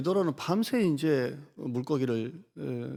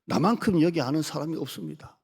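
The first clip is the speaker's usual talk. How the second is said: Peter boasting; 2 semitones higher, 3 dB louder than usual. Acted. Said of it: "베드로 입장에서는 이렇게 말할 수가".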